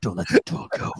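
soft, breathy put-on voice, breathed out. Complaining about a nerdy voice, the speaker recasts the line in a Jocko voice. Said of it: "could he have like a Jocko voice".

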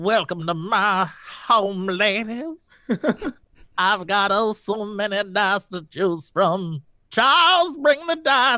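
put-on old Southern belle voice, slow drawl. A player wanting in on the game plays an old damsel, Southern belle voice. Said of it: "an old damsel with like oh a Southern bell".

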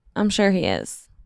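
dry, sarcastic tone. Mocking a team owner's future choices in a chat: sarcastic. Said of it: "that was sarcastic".

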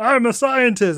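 goofy, silly little alien scientist voice. Recapping a story, voicing a Microversian scientist in a Microverse scientist voice. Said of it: "That's my Microverse voice".

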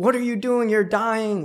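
mock high-pitched frantic scream of alarm. Retelling a nurse walking in on a healed patient: imitating a nurse screaming. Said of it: "the nurse walks in screaming her head off".

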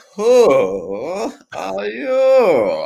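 put-on Russian accent with drawn-out who. Retelling answering people who greet you by name, in a russian accent. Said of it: "The Russian accent".

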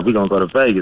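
ordinary talk

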